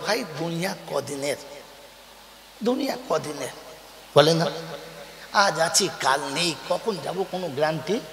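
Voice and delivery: mock pious saying. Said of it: "জুত করে বলে".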